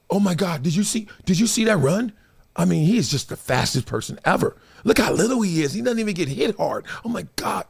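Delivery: hushed, gushing awe of a starstruck fan; mock the teammates gasping over a star. Mocking college teammates gushing over Warrick Dunn, softly awed. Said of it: "doing like this".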